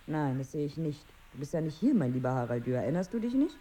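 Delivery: soft, hushed words to a sleeping man. Acted. Wife speaks to her sleeping husband, hushed.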